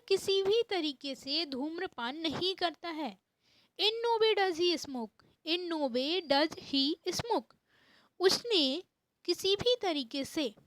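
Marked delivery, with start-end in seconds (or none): 3.8-7.6 slow, clear model sentence; spaced English phrase. Shown as a demonstration. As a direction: say it slowly so students follow. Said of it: "model sentence, slow".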